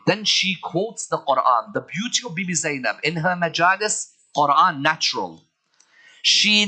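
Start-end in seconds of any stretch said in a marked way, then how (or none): none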